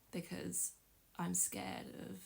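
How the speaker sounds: real choked-up hesitation, trailing into a near-whisper; holding back tears. Real, not acted. Woman admitting fear from a past relationship, trying not to get emotional. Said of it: "I'm not gonna get emotional".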